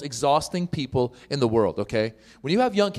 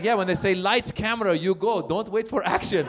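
mom's voice; 6 semitones higher than usual. Retold or imitated. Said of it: "She's like".

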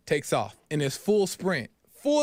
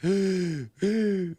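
sharp audible gasp of shock; crowd gasp. Retold or imitated. Crowd reacting to the upset, a gasp. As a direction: gasp as if stunned. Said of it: "Everyone gasps".

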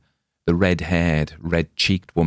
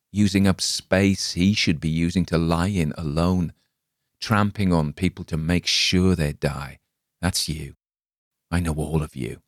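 polite accusation. Acted. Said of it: "It was like a polite monologue".

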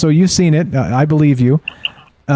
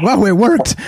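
mock amazement; 8 semitones higher than usual.

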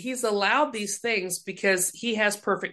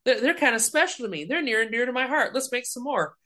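God voiced fondly; 4 semitones higher than usual. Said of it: "he was like".

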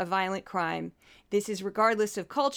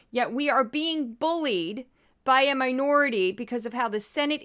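fed-up angry rant; worked up; 2 semitones higher than usual. Real, not acted. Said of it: "I didn't think I was gonna get this worked up".

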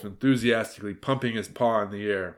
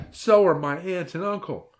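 put-on high, louder childish complaint; indignant little girl; 8 semitones higher, 5 dB louder than usual. A narrator's reading. Hilary denouncing her relatives to the wolf, indignant. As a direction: denounce them in a high girl's voice.

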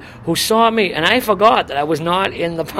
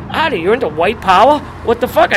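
raised, swooping question of disbelief; retold incredulity; 4 semitones higher, 3 dB louder than usual. Storyteller replaying his challenge to Artie, incredulous. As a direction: act out a baffled challenge.

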